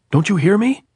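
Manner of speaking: high, loud demand; captain yelling at the sniper; angry shout. A narrator's reading. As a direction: bark at the soldier. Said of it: "the captain shouted at him".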